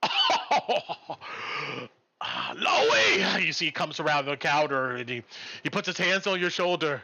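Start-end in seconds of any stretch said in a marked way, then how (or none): 0.0-3.4 joyful greeting. Acted. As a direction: greet a friend back from danger. Cook greets friend joyfully.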